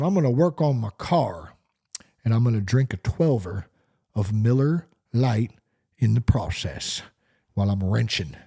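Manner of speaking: lightly voiced beer-drinking guy. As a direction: boast about beer while wrenching. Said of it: "the drinking voice".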